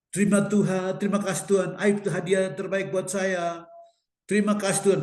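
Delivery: mock fervent thanks to God; imitated thankful prayer. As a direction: pray it out eagerly, imitating her. Voices woman's thankful prayer.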